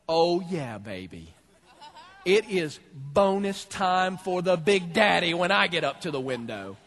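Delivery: chuckling, smug and slow; gloating chuckle. Retold or imitated. Greedy worker gloating at the line's end, chuckling. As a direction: savour the coming bonus with a laugh.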